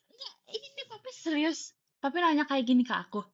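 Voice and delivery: incredulous questioning; retold shock. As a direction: act out checking if dad means it. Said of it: "aku, aku terkejut".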